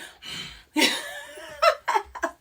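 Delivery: long high laughing fit. Real, not acted. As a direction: lose it completely. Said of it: "I don't know why it is so hilarious".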